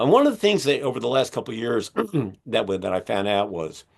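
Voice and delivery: hoarse, strained voice; speaking with a failing voice; losing voice. Real, not acted. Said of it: "I'm losing my voice".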